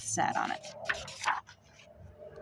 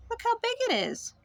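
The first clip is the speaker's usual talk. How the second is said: amazed; 13 semitones higher than usual. Acted. Mother bird amazed at egg.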